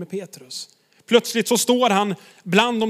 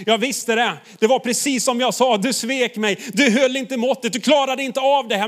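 mock accusing; 5 semitones higher, 3 dB louder than usual. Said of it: "komma till Petrus och sagt".

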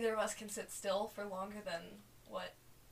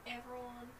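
town crier; 3 semitones higher, 8 dB quieter than usual. Acted. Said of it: "That's a fun accent".

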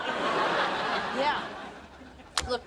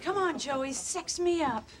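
hammed-up hungry seductress; lightly voiced lusty butcher's wife. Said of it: "you're starting to sound like the butcher's wife".

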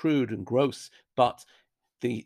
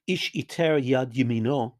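Yad pressed a little harder than the words around it; stress on Yad. Shown as a demonstration. Teacher reading the Hebrew verse aloud, stressing Yad. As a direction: lean on the word Yad. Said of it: "notice the stress on the word Yad".

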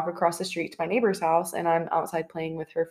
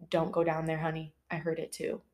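soft, hushed closet voice; a quiet voice warning from the closet; whispered warning; 3 semitones lower, 10 dB quieter than usual. Acted. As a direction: read it like a creepy whisper. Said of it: "you hear a whisper from the closet saying".

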